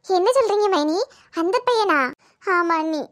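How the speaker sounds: put-on can't believe who the boy is; sister-in-law stunned to learn who the boy is, disbelieving; shocked disbelief. Shocked at the boy's name.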